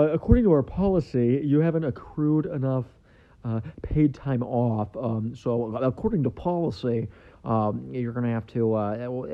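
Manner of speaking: a hint of an official reciting policy; lightly voiced HR rep. Employer explaining time-off policy to new hire, lightly mocked officialese. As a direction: recite rules like a mock company functionary.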